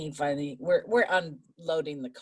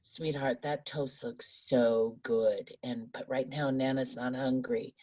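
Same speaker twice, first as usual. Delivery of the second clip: sweetly. Retold or imitated. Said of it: "I said it very sweetly".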